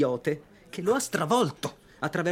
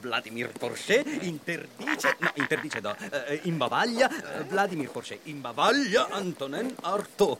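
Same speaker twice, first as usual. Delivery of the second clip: laughing headline. Acted. Gleefully drafting the headline.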